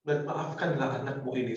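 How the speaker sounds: high, pleading cry that sinks to a hush; tearful pleading. Acted. Son begging his mother at her door, tearful pleading. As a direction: beg forgiveness through tears, fading out. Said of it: "Sambil anak itu menangis sejadi-jadinya".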